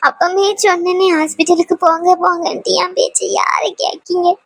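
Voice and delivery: crying, voice breaking, pleading for news; tearful wailing. Acted. Grandmother pleading with Muthumari about Priya, tearful wailing. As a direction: wail in grief, sobbing between the words. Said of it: "அம்மா அழுவாதீங்க".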